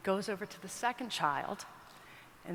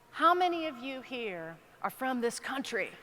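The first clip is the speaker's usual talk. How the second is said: lightly imitated rodeo announcer, starting raised and gliding down; announcer's question; 3 semitones higher than usual. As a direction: put the question to the arena, lightly showy. Announcer questions the kids before crowd.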